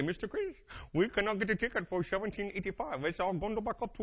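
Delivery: put-on travel agent's South Asian accent, lifted pitch. Travel agent turning down a ticket, South Asian accent. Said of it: "every time I called these travel agents".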